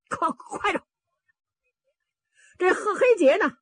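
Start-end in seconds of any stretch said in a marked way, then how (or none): 0.1-0.8 stuttering. A narrator's reading. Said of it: "口吃， 就是结巴磕子".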